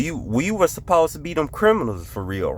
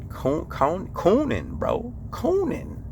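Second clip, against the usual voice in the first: rising disbelief; 6 semitones higher, slower than usual. Real, not acted. Struggling with a name, pitch climbing.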